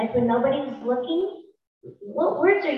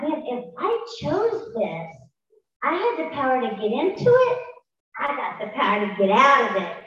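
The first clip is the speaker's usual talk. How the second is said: retold resolve. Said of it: "And I thought".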